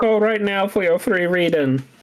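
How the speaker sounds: mystical, dramatic hotline psychic voice. Showing someone how a woman with a voodoo vibe talks, do a Miss Cleo voice. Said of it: "talks like this".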